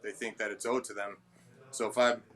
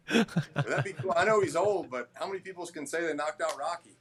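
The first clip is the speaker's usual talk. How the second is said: excited joking; 5 semitones higher than usual. Retold or imitated. Trainer joking with host about knocking out Rocky, excited. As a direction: tease the idea like a kid dreaming big.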